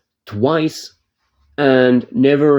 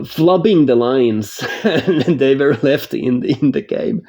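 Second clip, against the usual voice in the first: laughing; 2 semitones higher, slower than usual. Real, not acted. Laughing at bad voice acting.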